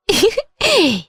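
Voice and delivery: a high, pleased cackle of pride; high bragging giggle; gloating laugh. Acted. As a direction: laugh like a boastful grandmother. Mother-in-law gloating over grandson.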